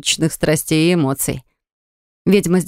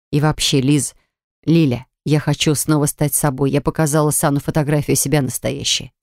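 seething; 3 semitones lower than usual. Acted. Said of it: "Закипела, как чайник, Мурена".

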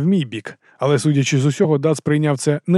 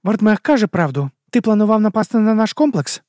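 higher female voice, firm questioning; a woman pressing for the truth, pitched up; Арада, вищий жіночий голос; 8 semitones higher than usual. A narrator's reading. Arada's voice in narration. (вищий жіночий голос, наполегливе запитання)

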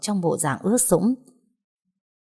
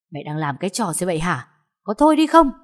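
angry shout; 2 semitones higher, 4 dB louder, faster than usual. Acted. Son yelling at his mother to stop, furious. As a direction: shout her down.

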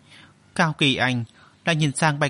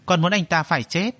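chết hit firmest, a bit higher, at the end; stress on chết; 3 semitones higher than usual. Acted. Son vowing revenge to his mother, heavy stress on chết. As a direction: lean hard on the word chết. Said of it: "nhấn mạnh từ chết".

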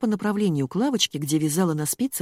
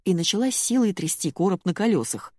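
plain reading voice

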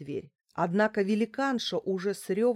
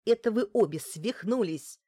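higher, louder retort; yelling back; 4 semitones higher, 6 dB louder than usual. A narrator's reading. Client answering both brawling women, yelling. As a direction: fling it back in a raised voice. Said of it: "заорала в ответ Лариса".

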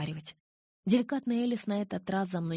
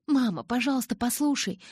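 pleading, pitched higher and louder; 7 semitones higher, 5 dB louder than usual. A narrator's reading. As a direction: beg her mother to listen, voice up high. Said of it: "взмолилась я".

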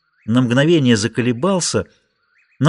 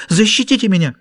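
pleading; 7 semitones higher than usual. A narrator's reading. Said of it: "взмолилась Хулия".

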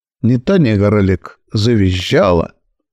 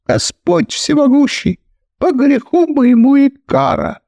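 high wailing prayer, much higher; kneeling lament to heaven; 7 semitones higher than usual. Acted. Kalman on his knees begs God to punish him, high wailing. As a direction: cry up to God like a repentant sinner. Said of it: "бухнулся на колени и обратился к потолку".

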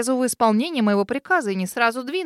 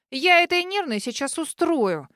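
higher, slow, furious threat; angry growl; 6 semitones higher, slower than usual. Acted. Girl threatens the nervous intruder, slow angry growl. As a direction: promise trouble through your teeth. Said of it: "сердито прорычала".

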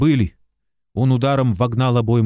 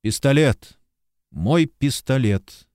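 demanding and dry; 3 semitones higher, slower than usual. Acted. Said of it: "сказал требовательно и сухо".

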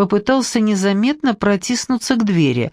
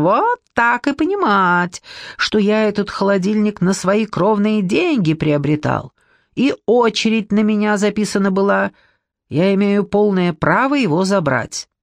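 high squeal that settles back down; a squealing man defending his fridge. Acted. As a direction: squeal the first words, then ease off. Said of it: "высоким визгливым голосом".

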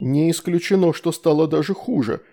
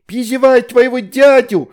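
put-on 1 little girl; 10 semitones higher, 9 dB louder than usual. A narrator's reading. Little girl repeats the summons.

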